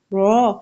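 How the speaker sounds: را said full and heavy, as "ro"; را with the voice gathered in the mouth. Shown as a demonstration. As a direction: round out را to a thick "ro". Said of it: "تو را heavy ہو جاتا ہے".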